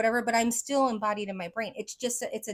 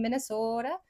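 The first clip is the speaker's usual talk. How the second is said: Minnesota accent, long drawn O in "Minnesota". Shown as a demonstration. Showing the accent picked up from Canadians, Minnesota accent. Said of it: "I can't get the "oh" out of".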